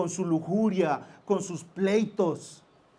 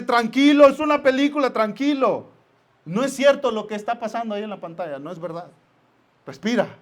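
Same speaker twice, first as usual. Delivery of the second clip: calming wife; 3 semitones higher, 6 dB louder than usual. Retold or imitated. Wife calming him, acted.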